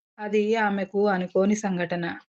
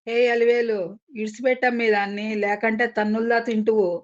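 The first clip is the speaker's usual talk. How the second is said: loud shout; 2 semitones higher than usual. Acted. Husband yells at his wife to release the woman, loud. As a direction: bellow at her to let go. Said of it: "గట్టిగా అరిచినట్లుగా కేకేశాడు".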